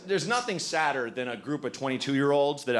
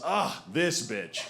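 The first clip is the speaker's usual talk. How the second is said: tired mother groan; slower than usual. Retold or imitated. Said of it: "Kara just goes".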